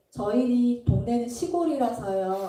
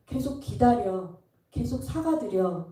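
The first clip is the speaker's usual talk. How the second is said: calm gentle instruction. Retold or imitated. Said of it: "예수님은 계속".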